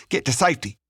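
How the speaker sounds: high, urgent gasp on the move; gasped urgency. A narrator's reading. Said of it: "Leon gasped over his shoulder".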